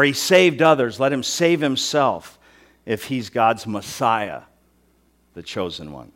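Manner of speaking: slowed mock challenge, sinking at the end; sarcastic. Rulers sneering at Jesus on the cross, sarcastic. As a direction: sneer it out slowly, dropping away on the title. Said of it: "With total sarcasm".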